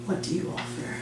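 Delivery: soft rasping whisper; demon whisper. Acted. Mortiferous asks again.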